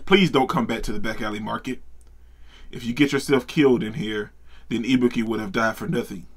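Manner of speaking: lightly voiced gang boss, low and soft; a hint of a menacing boss saying goodbye; low character voice. Voices a character's farewell threat.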